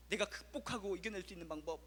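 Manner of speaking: ordinary delivery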